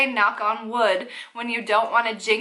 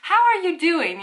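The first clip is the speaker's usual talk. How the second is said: higher, falling how-are-you in imitation; mock therapist question; 6 semitones higher than usual. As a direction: ask like a caricatured therapist. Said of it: "therapist question".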